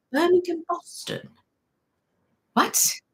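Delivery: confused. Real, not acted. Streamer reading a viewer's hometown, confused. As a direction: repeat it as a baffled question. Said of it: "I'm so confused".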